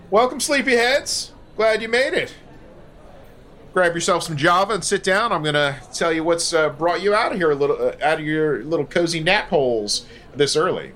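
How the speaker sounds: a hint of a barking gunny; lightly voiced tough drill sergeant. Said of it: "Gunny Sergeant standing up before the briefing board".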